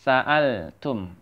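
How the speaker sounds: "Sa'altum" slowly, with a break between sa and al; separated syllables. Shown as a demonstration. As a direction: split "Sa'altum" into sa, al, tum. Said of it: "jangan salah".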